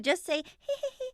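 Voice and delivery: high prim little hee hee, demonstrated; dainty ladylike giggle. Shown as a demonstration. Grandma demonstrating a ladylike laugh, high and prim. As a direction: show the polite giggle grandma wanted. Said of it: "she was like".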